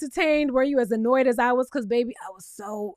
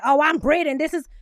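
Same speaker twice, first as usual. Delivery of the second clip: mock perky intro. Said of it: "You coming through like".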